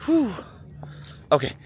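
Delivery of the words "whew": breathless whew. Real, not acted. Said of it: "I'm out of breath".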